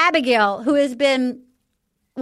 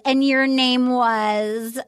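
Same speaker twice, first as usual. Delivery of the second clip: drawn-out mock question, trailing the last word; imitated dismissive question; 3 semitones lower, much slower than usual. Contestant calls after a departing rival, slow mock question. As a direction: stretch it slowly as a parting dig. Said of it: "then Piper goes".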